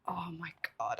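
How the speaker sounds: breathless unvoiced whisper. Real, not acted. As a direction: hush it like a secret. Stunned by detailed costume.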